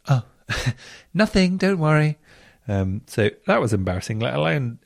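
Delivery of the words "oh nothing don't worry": embarrassed laugh. Retold or imitated. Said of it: "And I was like".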